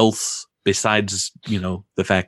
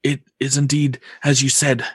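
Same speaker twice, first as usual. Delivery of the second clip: put-on higher old mystic voice; resigned old seer, ready to go; fortune teller; 6 semitones higher than usual. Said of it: "he says".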